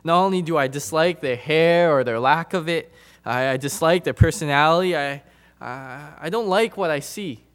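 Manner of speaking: mock protest, building in volume; voiced grumbling objection. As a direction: play the objecting listener, mildly indignant. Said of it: "I know what you're thinking".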